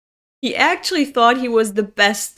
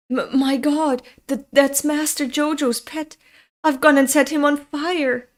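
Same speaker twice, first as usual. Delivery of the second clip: stammering, higher-pitched dismay; acted horror; 4 semitones higher than usual. Servant realizing he burned the master's pet, horrified stammer. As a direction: stammer it out in rising panic.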